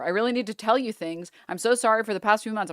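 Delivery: mock Shakespearean reading. Shown as a demonstration. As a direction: read the text as if it were a Shakespeare play. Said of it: "he turned into fucking Shakespeare".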